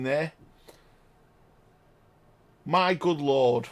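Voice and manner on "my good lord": stunned murmur. Real, not acted. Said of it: "I haven't said that for a while".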